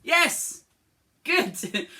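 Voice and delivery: high, loud cheer; excited yes. Real, not acted. Teacher cheering a child's answer, high and loud. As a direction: celebrate the answer.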